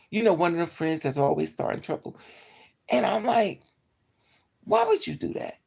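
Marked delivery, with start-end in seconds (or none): 2.9-5.5 high-pitched outraged question; high incredulous quote. Retold or imitated. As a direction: ask it shrill with disbelief. Retold confrontation.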